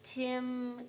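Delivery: slow, choppy, one word at a time; slow word-by-word reading. Shown as a demonstration. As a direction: sound each word out slowly like a beginner. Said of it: "not like a robot".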